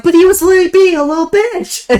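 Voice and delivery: laughing retort. Retold or imitated. Quoting own comeback, amused.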